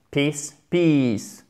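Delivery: "peace, peace", the last with a very long "ee"; exaggerated length. Shown as a demonstration. Teacher exaggerating the length for learners, long i. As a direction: overstretch the vowel in the final peace. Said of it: "J'exagère sur la longueur".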